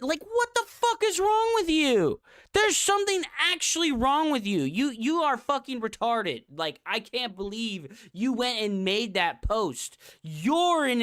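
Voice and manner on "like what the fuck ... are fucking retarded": high, loud exasperated yelling; angry rant. Real, not acted. Streamer berating Heaven, loud exasperated yelling. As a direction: blow up in disbelief.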